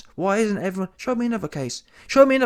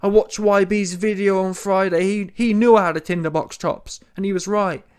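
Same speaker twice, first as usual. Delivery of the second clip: mock sobbed lament, slightly raised; mock crying; 3 semitones higher than usual. Imitating Tommy Fury admitting defeat, mock crying. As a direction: play at wailing over a defeat. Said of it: "Tommy Fury should have been crying".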